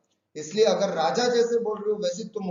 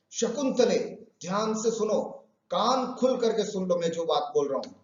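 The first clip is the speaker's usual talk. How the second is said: angry warning. Acted. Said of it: "अब गुस्से से बोलते हैं".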